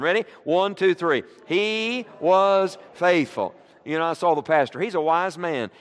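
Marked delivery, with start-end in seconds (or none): 1.5-3.5 with enthusiasm. Shown as a demonstration. Preacher pointing at the neighbor, saying it with more enthusiasm. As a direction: preach it at your neighbor with fire. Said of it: "say it with more enthusiasm".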